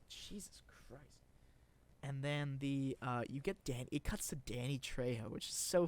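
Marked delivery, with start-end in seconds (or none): 0.1-1.2 slow, voiceless exasperated mutter; exasperated whisper. Real, not acted. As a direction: sigh the words out slowly. Exasperated end of mock rant.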